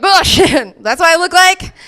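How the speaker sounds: high, loud burst of alarm; hammed-up shock at your own reflection; mock startled. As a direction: blurt it out as if caught off guard. Startled by own front camera.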